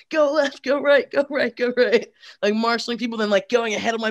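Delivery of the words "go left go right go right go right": loud calling out left and right; directing a crowd. Retold or imitated. Marshal on a bike calling out to the crowd, loud commands. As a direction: wave people along, calling out loud and higher. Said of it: "just being like".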